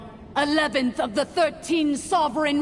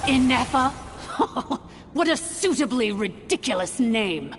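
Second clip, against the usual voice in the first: sneering amusement; scornful laugh. Acted. Villain mocks the name.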